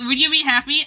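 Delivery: ordinary talk, nothing marked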